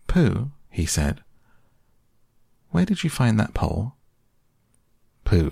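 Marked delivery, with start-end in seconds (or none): 0.1-0.5 amazed call. Acted. Boy amazed. 2.7-3.9 put-on amazed boy.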